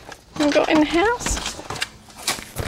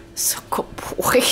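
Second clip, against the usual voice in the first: whispering. Real, not acted. Praising the dog.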